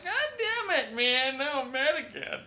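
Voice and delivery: cracking up while faking the anger; laughing through it. Retold or imitated. Retelling his own flip back to anger.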